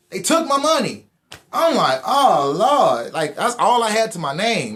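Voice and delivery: high, loud stunned wail; dismayed shock. Retold or imitated. Finding the money gone, loud stunned dismay. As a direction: realize it's all gone and cry out.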